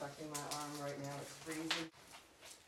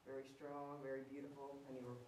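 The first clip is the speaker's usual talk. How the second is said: coaxing a ghost; 6 dB quieter than usual. Real, not acted. Coaxing spirit to touch device.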